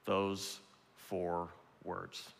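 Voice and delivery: slow, low and soft; hushed appeal. Real, not acted. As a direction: lean in and almost breathe it.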